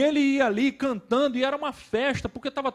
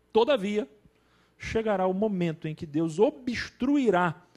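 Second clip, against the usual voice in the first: measured reading with deliberate pauses; formal book reading; 4 semitones lower than usual. Acted. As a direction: read the passage out deliberately to listeners. Resumes reading the book passage.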